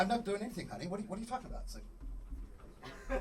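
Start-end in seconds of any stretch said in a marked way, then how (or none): 0.0-1.6 defensive denial. Acted. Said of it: "I'm going".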